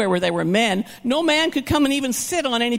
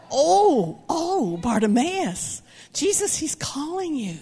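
eager crowd; 4 semitones higher, slower than usual. Retold or imitated.

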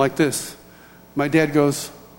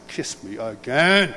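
mock pleading; 5 semitones lower, slower than usual. Son acts out his eager reply.

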